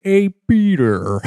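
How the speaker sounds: high, slow Lois voice; cartoon mom calling "Hey, Peter."; Lois impression. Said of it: "I just wanna be able to go".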